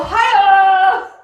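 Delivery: hi-oh. Real, not acted. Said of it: "punchline exclamation".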